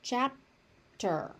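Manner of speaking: "Chapter" with an unreleased P, then ter; unaspirated P. Shown as a demonstration. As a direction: stop the P in "Chapter" without a puff of air. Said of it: "The P is unaspirated".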